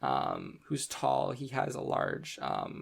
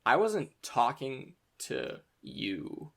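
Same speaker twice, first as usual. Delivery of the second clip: cold retort; much slower than usual. Acted. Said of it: "stares daggers at her".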